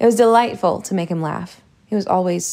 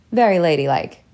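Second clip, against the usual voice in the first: polite; 2 semitones lower than usual. Acted. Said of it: "Char said politely".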